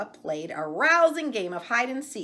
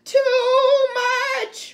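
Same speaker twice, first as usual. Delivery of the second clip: much higher, louder sung-out wail; wailing calf; 13 dB louder than usual. Acted. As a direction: wail it like a panicked little calf. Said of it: "wailed Fergus".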